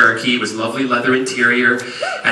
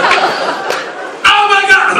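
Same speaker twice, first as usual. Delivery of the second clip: high, drawn-out comic wail; mock panic; much slower than usual. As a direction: stretch it out in hammed-up horror. Acting his panic in the car.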